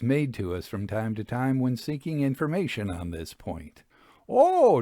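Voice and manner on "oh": high lilting "Oh"; a bright, vague villager's "Oh"; drawn-out oh. A narrator's reading. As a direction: toss it off airily, pitched up. Narrator voices villagers' vague answers.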